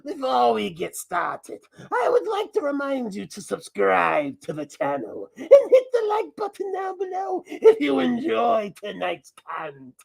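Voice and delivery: lightly voiced masked alter ego, playful; a mischievous mask character hijacking the channel; Mascot persona voice. Masked Mascot taking over the host's channel, mischievous. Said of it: "I'm not the host. I'm Mascot".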